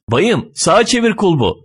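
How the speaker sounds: irritated yelling. Acted. Driver orders the fat man to turn the handle, irritated yelling. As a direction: call out an impatient instruction. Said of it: "Şoför bu sefer ona bağırıyor".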